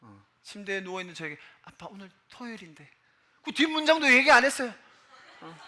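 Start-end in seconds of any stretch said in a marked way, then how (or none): 1.6-2.9 very soft, hushed hint to dad; barely audible imitation of a child; imitated child's whisper. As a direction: whisper it like a son at the bedside. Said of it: "큰 소리로 얘기하지 않았어요".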